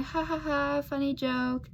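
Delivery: imitated brush-off laugh; mock laugh. Retelling how a flirt was laughed off, mock laugh. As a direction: pretend to laugh off a joke. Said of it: "laugh it off".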